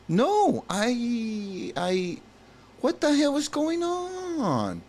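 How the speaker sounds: high slow alarmed yell; alarmed shout. Acted. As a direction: demand it in alarm. Voicing Jack alarmed.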